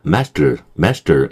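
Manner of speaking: "master" with open a and tense t; English master. Shown as a demonstration. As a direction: say "master" like MAS-dr, reduced ending. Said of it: "요 정도요".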